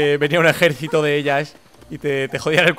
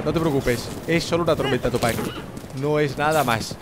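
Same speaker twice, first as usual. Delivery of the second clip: lower, gentle reassurance; soothing; 3 semitones lower, 3 dB quieter than usual. Real, not acted. Rider calming his horse Tupac in a storm, soothing. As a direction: talk softly to settle a nervous animal.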